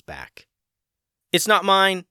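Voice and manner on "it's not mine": high, loud startled protest. A narrator's reading. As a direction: blurt it out in surprise. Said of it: "Tim and Ray said at the same time".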